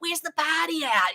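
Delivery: put-on strong Boston accent. Retelling own words when mocked at college: boston accent dropping r's. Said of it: "'cause you would drop all your R's".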